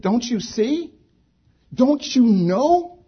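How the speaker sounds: very high, incredulous questions; exasperated pleading. Retold or imitated. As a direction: plead as a baffled disciple, voice pitched right up. Acts disciples' exasperated cry to Jesus.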